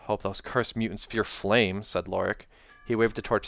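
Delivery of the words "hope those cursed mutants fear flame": slow, doubtful reading; skeptical. Shown as a demonstration. Soldier doubting the torches will work, skeptical. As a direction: sound like you don't believe it. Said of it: "more skeptical".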